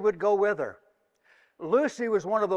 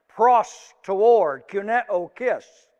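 ordinary talk

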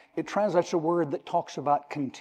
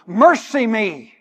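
loud pleading cry, slow; preacher acting a desperate plea; mock hollering; 3 semitones higher, 8 dB louder, slower than usual. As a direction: call out for mercy. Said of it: "she's just this one hollering".

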